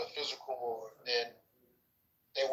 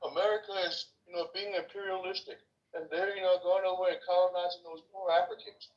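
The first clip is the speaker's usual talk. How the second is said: raised pitch, imitating critics; higher-pitched mock complaint; mocking objectors; 6 semitones higher than usual. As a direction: put on a high voice mocking protesters. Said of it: "I can hear a whole bunch".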